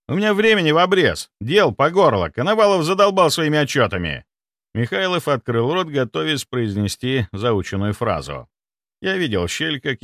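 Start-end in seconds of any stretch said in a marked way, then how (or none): 0.1-4.3 impatient rant. Acted. Nikolai keeps barking impatiently.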